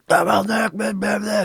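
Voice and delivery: high-pitched mocking blah-blah rant; mock yelling gibberish. Old man screeching at the rock picker, mock rant. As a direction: parody an old man ranting at you. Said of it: "starts yelling at me".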